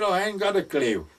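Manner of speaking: high, spluttered admission; astonished admission. Retold or imitated. Friend admitting he never twigged, astonished. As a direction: act out the dawning realisation loudly. Friend flustered as penny drops.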